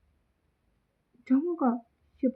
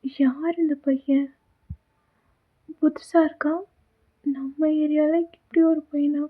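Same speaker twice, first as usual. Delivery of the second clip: wondering inner thoughts; 3 semitones higher, 4 dB louder than usual. Acted. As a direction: think aloud, amazed at the tattooed boy. Flashback inner thoughts on seeing him.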